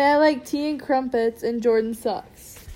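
slow mock British accent. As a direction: say it like a posh-tea Brit, drawn out. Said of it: "best impression of a British person".

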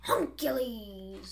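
Hercules said as "Huncules", slow; slow "Huncules" repeated on request. Shown as a demonstration. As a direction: drag out "Huncules" deliberately. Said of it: "Why do you say it like that?".

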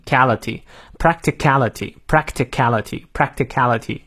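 "practicality" stressed on cality. Shown as a demonstration. Teacher drilling a hard word, stress on "cal" in "practicality". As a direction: punch the "cal" in each "practicality". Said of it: "然后后面是重音".

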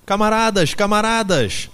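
high, loud, desperate appeal; pleading shout. A narrator's reading. Animals beg the two horses, shouting desperately. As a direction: cry out to beg them to stop. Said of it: "gritavam eles".

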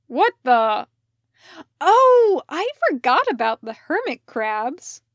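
high, loud alarmed exclamation; startled cry. Acted. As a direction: gasp it out as she remembers. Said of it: "Parker cried".

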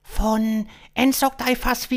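high, loud alien gibberish; high-pitched extraterrestrial tongue; alien stranger. Acted. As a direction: rattle off alien syllables in a high voice. Alien names unpronounceable home.

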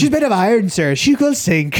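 high, loud hammed-up British accent; mock British accent. Officer warning the Titanic's captain, mock British accent. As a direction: declare it like a British ship's officer. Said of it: "our accents sound pretty good".

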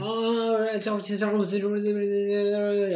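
mock English gabble. Clinic worker imitating a foreign patient, high garbled English. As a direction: babble it like English nobody can follow. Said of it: "Sí, así".

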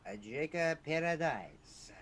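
hammed-up French Canadian; mock French accent. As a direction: stretch it out in a fake French accent. Riffing on French Canadian speech.

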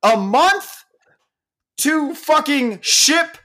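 high-pitched incredulous rant; worked-up shrieky outrage; outraged screaming. Real, not acted. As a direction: screech it in disbelief. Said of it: "Madeline just texted me that I'm screaming".

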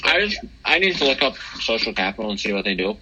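talking through a mouthful of cereal; chewing while talking; mouth full. Real, not acted. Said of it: "Sorry, I'm eating kashi".

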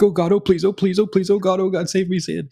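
high, fast pleading, retelling the panic; panic praying. Retold or imitated. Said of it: "it's panic praying".

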